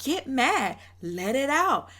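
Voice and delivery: a mild mock of her patronizing tone; a touch of condescension; condescending. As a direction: imitate her goading him, lightly. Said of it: "so condescending and rude".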